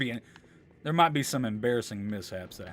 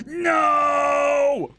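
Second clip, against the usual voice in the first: shout; 13 semitones higher, 10 dB louder than usual. Real, not acted. Shout at game mishap.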